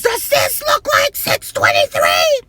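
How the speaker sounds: high, loud, outraged demand; man yelling at the clerk, holding up the phone; furious shout. Retold or imitated. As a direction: yell it as if holding up the proof. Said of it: "And he says".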